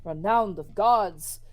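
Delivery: put-on Korda accent. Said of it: "Korda accent".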